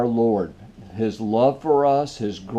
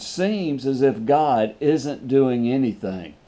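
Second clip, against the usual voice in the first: seems leaned on, slow; stress on seems; slower than usual. Shown as a demonstration. Pastor stressing a word for the listeners, slow. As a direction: dwell on the word seems slowly. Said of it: "I want to stress that word".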